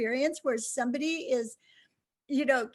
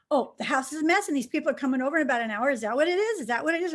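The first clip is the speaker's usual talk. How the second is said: husband rapid guessing; 5 dB louder, faster than usual. Retold or imitated. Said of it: "He goes".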